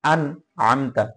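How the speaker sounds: clearly sounded n in আন, not hidden; আন with a crisp, unhidden n; clear nun. Shown as a demonstration. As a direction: pronounce the n of আন distinctly before Amta. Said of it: "স্পষ্ট করে পড়তে হবে".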